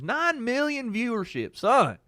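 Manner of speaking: high-pitched, bragging Southern dad impression; boastful dad. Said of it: "Trying to talk in, like, technical terms".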